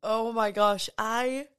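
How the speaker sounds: overcome, catching your breath between words; choked up. Real, not acted. Host moved by a listener's thank-you message, choked up. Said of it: "I'm, like, fully getting emotional".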